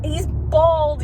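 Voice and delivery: high, panicked imitation; mock terror. Imitating Brett sweating and about to die, high mock-frightened voice. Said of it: "he's, like, sweating profusely".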